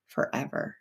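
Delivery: breathy whispered repeat; voiceless aside; whispered echo. Real, not acted. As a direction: echo the word under your breath. Echoing her own word.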